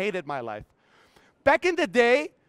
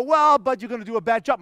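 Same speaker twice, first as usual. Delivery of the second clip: louder, whining protest against himself; the lazy inner voice pushing back loudly; whiny excuse; 5 dB louder than usual. Retold or imitated. Lazy inner voice answering himself, loud whine.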